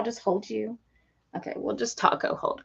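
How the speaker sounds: soft whisper to the bird. Real, not acted. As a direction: whisper gently to calm him. Holding the bird close.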